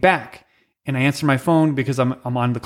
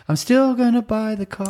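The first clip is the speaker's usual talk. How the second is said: mock buyer; 7 semitones higher than usual. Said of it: "Hey, man, listen".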